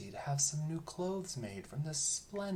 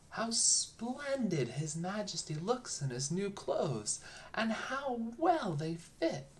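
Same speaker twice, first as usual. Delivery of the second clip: higher, louder, slow gushing praise; crying out; 8 semitones higher, 4 dB louder, slower than usual. A narrator's reading. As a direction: gush over him, drawn out and loud. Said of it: "everyone cried out".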